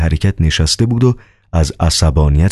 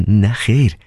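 startled; 6 semitones higher than usual. Acted.

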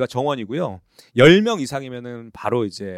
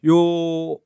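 home shopping pitch; 3 semitones higher, 6 dB louder than usual. Pretend. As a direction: sell it like a home shopping host. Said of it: "이게 홈쇼핑 모드처럼".

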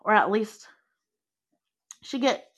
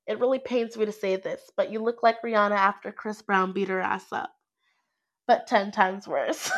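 laughing. Acted. Friend laughing while insulting.

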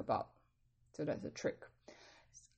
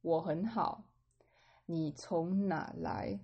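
slow model reading; slower than usual. Shown as a demonstration. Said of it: "I'm gonna restart B again".

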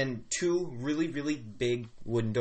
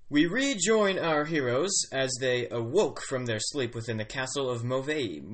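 hushed nature documentary. Acted. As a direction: ease into the story like a documentary host. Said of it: "for the narrator voice, so I'll just do this".

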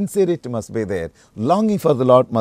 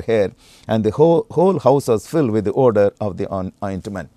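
louder, measured Bible reading; scripture reading; 4 dB louder than usual. Acted. Preacher reading John twelve to the church, solemn read. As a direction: read the verses out to the congregation.

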